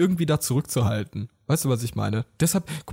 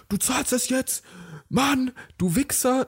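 mock angry guy; 7 semitones higher, slower than usual.

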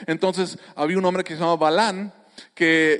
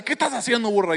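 angry; 3 semitones higher, faster than usual. Acted. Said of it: "se enoja Balán y dice".

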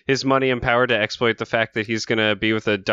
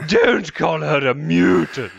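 much higher, slow cartoon toff voice; Snagglepuss voice; 4 semitones higher, 3 dB louder, slower than usual. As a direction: drawl it like a camp cartoon lion. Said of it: "your accent was extremely Snagglepussy".

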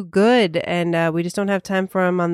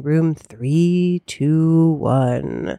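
countdown; 3 semitones lower, much slower than usual. Acted.

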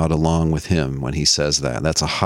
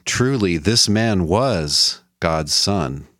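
solemn confession; slower than usual. Retold or imitated. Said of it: "he confesses".

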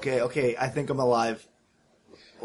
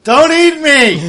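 high, slow panicked squeal; frightened prey animal; 12 semitones higher, 11 dB louder, much slower than usual. Acted. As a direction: shriek like cornered prey. Player panics at monster.

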